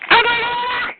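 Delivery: yelled taunt in a shouting match. Real, not acted. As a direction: shout the insult to drown them out. Taunting shout in a trading-insults quarrel.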